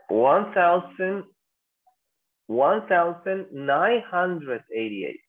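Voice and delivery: slow "one thousand nine hundred eighty-eight", word by word; year read in full. Shown as a demonstration. Teacher confirms a student's long reading of the year, slow full reading. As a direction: spell out the year at half pace. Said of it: "es más fácil pronunciarlo así, miren, de dos en dos".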